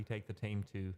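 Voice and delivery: accidental Irish-sounding vowel in "time"; Irish accent. Real, not acted. Thanking a viewer for listening, accidental Irish lilt. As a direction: slip lightly into Irish on "time". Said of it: "that sounded very Irish".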